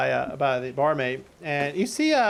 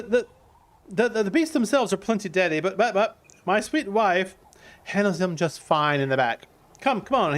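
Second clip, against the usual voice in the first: higher, bubbly salesman welcoming customers; excited Cotter; 4 semitones higher than usual. Acted. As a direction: hurry them in like a proud, happy host. Cotter invites them in.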